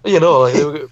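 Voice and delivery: put-on rural Canadian accent. Farmer telling friends about crops, put-on Canadian accent. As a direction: lay on a folksy Canadian accent. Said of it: "a Canadian accent to".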